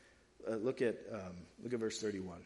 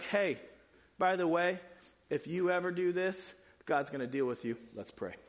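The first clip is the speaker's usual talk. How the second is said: abrupt mock ending; 3 semitones higher than usual. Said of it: "imagine me ending a sermon like this".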